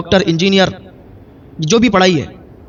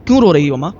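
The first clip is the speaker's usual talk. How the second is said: lower, gentle concern; loving son; 3 semitones lower than usual. A narrator's reading. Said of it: "بہت محبت سے، بہت پیار سے کہا". (محبت اور پیار بھرا نرم لہجہ)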